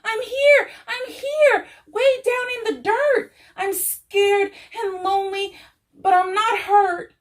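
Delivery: high, loud voice from underground; muffled voice. A narrator's reading. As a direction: call up from beneath the dirt. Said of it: "Little Seed's muffled voice".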